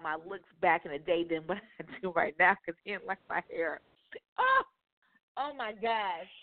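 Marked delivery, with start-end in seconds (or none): 2.1-6.3 words through a big laugh; laughing while talking. Real, not acted.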